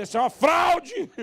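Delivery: loud, high protest; indignant outburst. Pretend. Husband wanting to call the kiss a fraud, loud and high. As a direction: denounce it with outrage.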